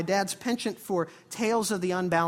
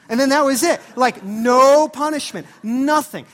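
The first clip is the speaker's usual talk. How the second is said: loud, higher, slowed for emphasis; emphatic disbelief; 6 semitones higher, 14 dB louder than usual. Acted. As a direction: hammer the anticlimax home. Preacher stressing the anticlimax.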